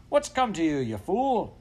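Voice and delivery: high, loud exasperated scolding; raging farmer. A narrator's reading. Farmer demanding dog explain itself, raging. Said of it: "in the midst of his rage".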